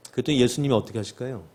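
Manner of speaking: ordinary talk, nothing marked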